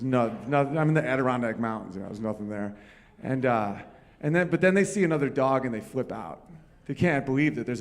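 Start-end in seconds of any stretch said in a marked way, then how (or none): none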